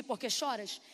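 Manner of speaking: quiet reflective question. Shown as a demonstration. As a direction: turn "Por que choras" inward, softly. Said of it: "Sabe o que significa literalmente isso aqui". ("Por que choras" baixo e pensativo)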